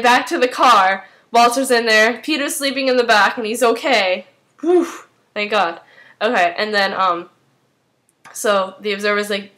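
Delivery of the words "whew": exaggerated sigh of relief; a quick, high "whew" of relief; relieved whew. Relief that Peter is okay.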